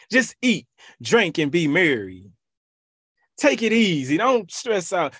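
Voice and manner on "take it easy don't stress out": higher, mocking the carefree rich man. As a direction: tease his lazy attitude.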